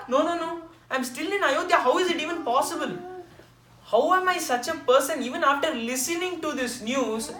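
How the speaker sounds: high, loud wailing lament; a grieving queen's high, loud lament; lamenting mother. Retold or imitated.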